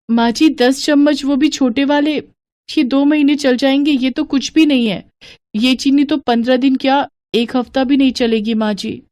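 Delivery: lightly voiced daughter-in-law; young daughter-in-law. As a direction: answer the mother-in-law sweetly.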